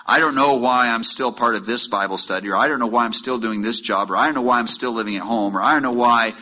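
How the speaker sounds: mock whining about staying in the job; whiny complaining. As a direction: rattle off complaints like a fed-up churchgoer. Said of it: "mock whiny complaints".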